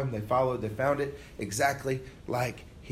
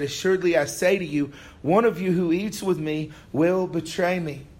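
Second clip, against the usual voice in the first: higher, louder, solemn pronouncement; solemn Jesus; 3 semitones higher, 4 dB louder than usual. Acted. Preacher voicing Jesus at the supper, solemn and louder. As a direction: proclaim it like a grave prophecy.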